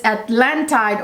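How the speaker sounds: Atlantide said the Italian way; Italian pronunciation. Shown as a demonstration. Reviewer naming the fragrance for viewers, Italian pronunciation of Atlantide. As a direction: say Atlantide as Italians do, sounding the ending. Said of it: "That's how the Italians pronounce it".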